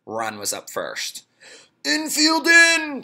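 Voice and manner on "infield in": high, loud, slow call to the field; loud coach-like shout; shouted order. Acted. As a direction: bark the order across the field. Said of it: "shouted Damien".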